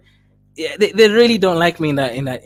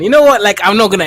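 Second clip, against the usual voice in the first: excited; 4 semitones higher, 7 dB louder, faster than usual. Real, not acted. Delighted reaction to a donation.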